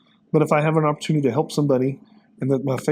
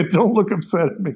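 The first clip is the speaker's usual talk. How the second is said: laughing tease; 7 semitones higher, 4 dB louder than usual. Real, not acted. Teasing the host mid-story.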